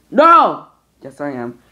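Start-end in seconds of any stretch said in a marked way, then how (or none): 0.1-0.7 shouting. Acted. Acted argument between toys.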